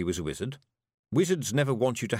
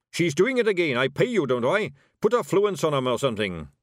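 loud, high, exasperated boss; demanding; 6 semitones higher, 6 dB louder than usual. Acted. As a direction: order your hired wizard into action. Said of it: "he demanded".

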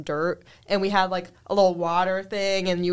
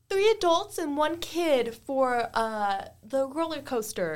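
mock customer order; 5 semitones higher than usual. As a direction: imitate a rider ordering tickets. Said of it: "they're just like".

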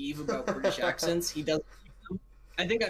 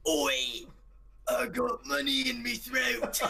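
slow, higher-pitched mock British accent; British child impression; 7 semitones higher, slower than usual. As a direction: imitate a small British boy announcing himself. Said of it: "just running around talking like that".

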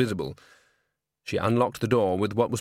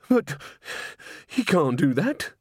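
sudden high but; shocked protest; 6 semitones higher, slower than usual. A narrator's reading. Missus Plinge protests in alarm, voice jumping high. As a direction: blurt it out in alarm.

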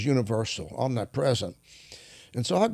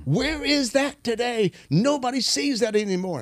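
quoted awed lament; 10 semitones higher than usual. Retold or imitated. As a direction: stretch it out high, longing for the old days. Same quote repeated, much higher.

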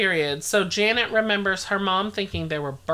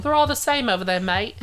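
put-on botched British accent, Australian-sounding; 2 semitones higher than usual. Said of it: "That's Australia".

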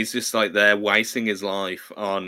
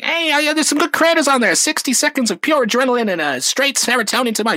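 high, louder, fast defensive gush; hammed-up excited fanboy; mock Spider-Man; 13 semitones higher, 4 dB louder, faster than usual. Spider-Man defending TikTok creators, high and fast. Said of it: "He's like".

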